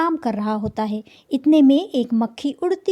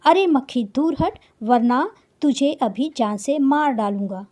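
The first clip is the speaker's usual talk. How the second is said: mild roar. Acted. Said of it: "दहाड़ा और बोला".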